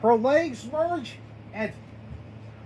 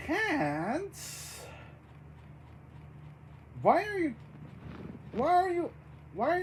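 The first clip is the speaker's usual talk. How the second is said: soft questioning; 4 semitones higher, 8 dB quieter than usual. Acted. Baroness hiding her changed hands, soft questioning. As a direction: ask it quietly, lifting at the end.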